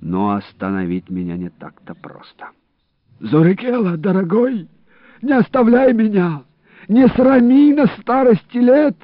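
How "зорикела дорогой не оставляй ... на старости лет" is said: high, strained pleading of a wounded man. A narrator's reading. Wounded Ilarion begging his friend for help, high and strained. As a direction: beg for help through the pain, pitched high. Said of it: "молил меня Иларион".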